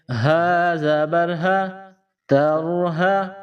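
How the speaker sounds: ہا and تر ہا drawn out slowly; slow spelling drill. Shown as a demonstration. Teacher joining syllables for pupils. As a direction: breathe ہا out slowly. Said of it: "ہا کے اوپر زبر ہے".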